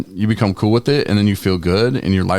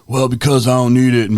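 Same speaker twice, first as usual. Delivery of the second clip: defiant; 5 semitones higher, 4 dB louder than usual. Retold or imitated. Retold friend's defiant reply.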